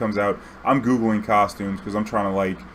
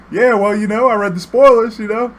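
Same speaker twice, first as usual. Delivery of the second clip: high, loud imitation of a friend; high-voiced bro explaining himself; retold excuse; 12 semitones higher, 7 dB louder than usual. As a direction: pitch it way up as a mock justification.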